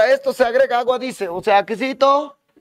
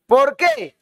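mock squeaky why. Teacher quizzes student, mock voice.

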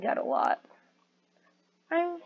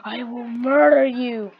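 mock angry threat; 2 semitones higher, 6 dB louder than usual. Father angry at son.

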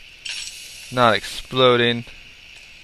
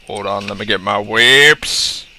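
slow, rising stretch on the last word; drawn-out line; 2 semitones lower, 4 dB louder than usual. Pretend. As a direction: stretch it out, louder into the end. Draws out line, then repeats it.

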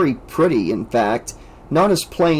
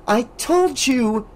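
insisting; 10 semitones higher, slower than usual. A narrator's reading. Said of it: "Alice insisted".

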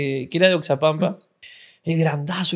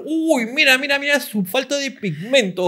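mock leering admiration, higher; leering excited voice; 5 semitones higher, 3 dB louder than usual. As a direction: gush over her like a creep. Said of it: "decía".

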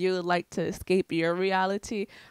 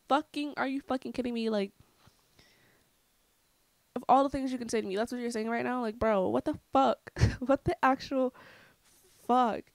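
higher-pitched, incredulous exasperation; exasperated retort; 4 semitones higher than usual. Retold or imitated. Retelling an argument with grandma, exasperated. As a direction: re-enact being fed up on the phone. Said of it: "she's pissing me off".

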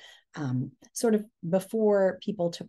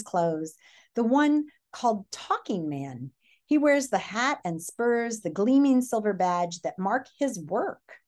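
story read-aloud; 2 semitones higher than usual. A narrator's reading.

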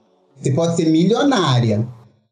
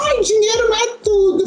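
much higher, prissy mock voice; hypocrite mockery. Mocking the hypocrites who say money isn't everything. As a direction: mimic a smug hypocrite. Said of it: "vem as hipócritas e dizem assim".

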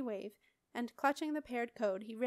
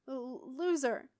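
spitting insult; 3 semitones higher, slower than usual. Acted. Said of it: "Marin spat".

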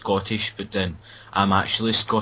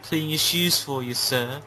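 high mock English servant voice; posh-servant English, pitched up high; hammed-up English bootblack; English accent; 5 semitones higher than usual. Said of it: "the English accent".

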